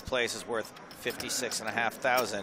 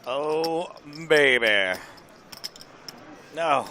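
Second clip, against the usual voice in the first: excited; 4 semitones higher, 7 dB louder, much slower than usual. Real, not acted. Co-commentator reacts to cards.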